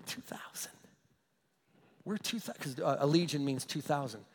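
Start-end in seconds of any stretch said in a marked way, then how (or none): 0.1-0.7 hushed, voiceless mock menace; whispering demon. Demons try to intimidate Jesus with their number, mock whisper. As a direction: whisper it like a comically spooky spirit. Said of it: "these demons tried to intimidate Jesus".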